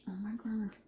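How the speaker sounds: whispered with a mouthful; mouth full. Real, not acted. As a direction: talk through a bite of food. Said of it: "didn't mean to talk in my mouth full".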